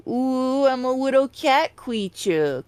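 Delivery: cutesy cat voice, lisped; little cat creature voice. Shown as a demonstration. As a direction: play a tiny cat creature. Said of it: "kind of voice".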